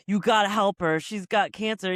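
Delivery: retold frantic plea; mock desperate plea. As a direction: beg him urgently, hammed up. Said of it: "and he's like".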